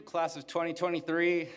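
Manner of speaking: rally the graduates with a shout; cheering call-out. Real, not acted. Calls out to graduating class.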